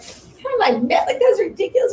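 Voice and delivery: high, loud, laughing disbelief; mock outrage, laughing it off; incredulous laughing. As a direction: scoff at the idea through laughter. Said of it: "being like".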